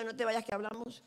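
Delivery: a hint of a serious talk coming; her own warning. Preacher warning a church member, mildly ominous. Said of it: "Cuando yo te diga".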